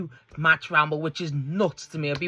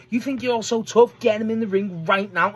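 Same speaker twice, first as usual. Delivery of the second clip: imitated call-out; 4 semitones higher than usual. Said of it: "just fucking calls him out right there".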